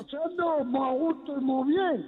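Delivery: hollow echoing room; cathedral echo. Real, not acted. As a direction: voice ringing in a chapel. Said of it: "¿te has metido en un váter?".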